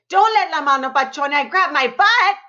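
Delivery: put-on high, trembling plea of a small boy; shaking with fear. Boy begging grandma about the monster claw, high scared plea. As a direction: plead with her, half laughing at yourself.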